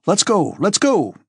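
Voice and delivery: urgent high-pitched cry; calling out. A narrator's reading. Anatole to his companions, calling out to leave. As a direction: call them to set off. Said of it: "cried Anatole".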